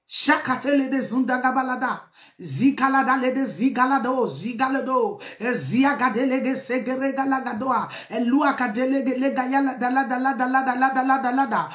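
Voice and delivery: rapid rhythmic tongues, syllables tumbling; speaking in tongues. Real, not acted. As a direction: let the syllables flow in tongues. Preacher breaks into tongues.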